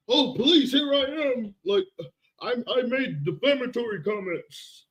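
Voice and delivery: mock meek turning himself in to police; mock surrender. Streamer mocking the idea of surrendering, meek mock voice. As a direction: play the meek citizen handing himself over. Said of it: "what do you think I'm gonna just turn?".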